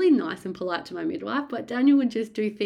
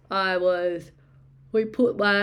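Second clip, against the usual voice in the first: talking through a yawn; words stretched by a yawn; 4 dB louder, slower than usual. Real, not acted.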